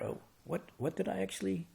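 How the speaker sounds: high-pitched mock confusion, speeding up at the end; mock bewilderment. Teacher plays a mind lost among its mental sandcastles, mock bewildered.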